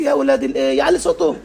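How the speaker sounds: "يعلي" jumps high in an amazed rising question; surprised disbelief. Retold or imitated. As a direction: echo the word back in astonished disbelief. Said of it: "اتفاجئت بيه".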